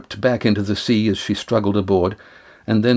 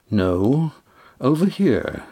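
calm correction, not raised in volume; strangely calm; 4 semitones higher, slower than usual. A narrator's reading. Damon answers from behind them, strangely calm. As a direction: answer mildly, lifting the pitch on "over here". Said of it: "Damon's voice, strangely calm".

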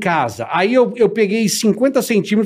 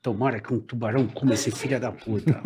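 imagined muttered curse; 6 semitones lower, 10 dB quieter than usual. Retold or imitated. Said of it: "deve ter pensado assim".

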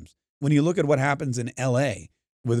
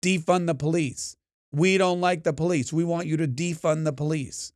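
imitated protest slogan, no real shout; mild mock yell; 3 semitones higher than usual. Angry groups demand of their leaders, mildly mock-yelled. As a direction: mimic protesters at slightly raised pitch. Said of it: "scream and yell at their leaders".

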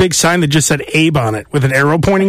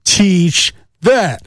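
wrestler catchphrase; much slower than usual. Retold or imitated. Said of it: "when they say".

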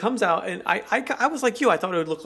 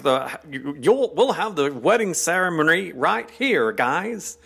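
a Brit faking the radio-voice American; British imitating an American; 4 semitones higher than usual. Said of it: "they'll try to imitate it".

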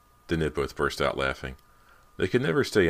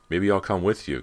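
higher, louder call; 5 semitones higher, 6 dB louder than usual. A narrator's reading. Cody calls to her sister from the stairway, louder. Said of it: "Cody called from the stairway".

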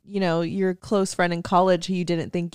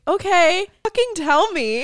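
higher and louder, demanding the details; bursting to hear everything; eager excitement; 12 semitones higher, 5 dB louder than usual. Retold or imitated. Friend replays begging for the story, higher and louder, eager.

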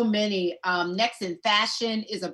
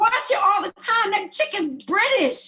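loud, high-pitched protest; heated, raised-voice objection; exasperated insistence; 12 semitones higher, 5 dB louder than usual. Real, not acted. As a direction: butt in loudly to prove the point. Interrupts to insist she knows.

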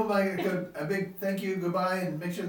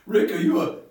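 loud, slow, insistent townhall voter; 11 dB louder, slower than usual. Acted. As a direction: demand it slowly from the back row. Voter asks candidate a question.

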